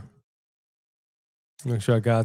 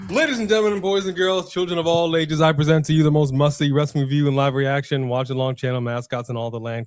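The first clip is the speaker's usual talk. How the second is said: ringmaster. Acted. Ring announcer introduction.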